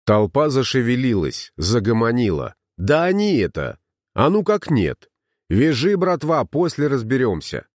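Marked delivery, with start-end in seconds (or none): 2.8-7.7 mob cries. Acted. Angry mob shouting.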